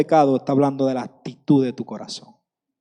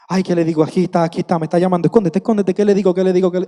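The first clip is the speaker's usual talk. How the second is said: higher-pitched, flustered mock panic; hurried, repetitive fretting, pitched up; 3 semitones higher, much faster than usual. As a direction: play someone caught out, scrambling for an excuse. Acts Adam panicking while being called.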